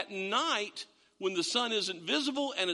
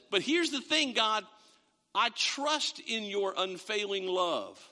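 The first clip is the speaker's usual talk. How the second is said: sincere trust; 2 semitones higher than usual. Acted. Voicing David's trust.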